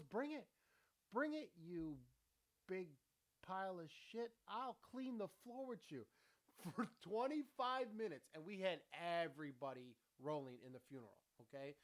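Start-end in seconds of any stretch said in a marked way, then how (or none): 0.0-6.0 hammed-up taunt, broken by pauses; imitating a feisty grandfather's challenge; mock fighting comeback. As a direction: playfully accept the fight, pitch jumping up.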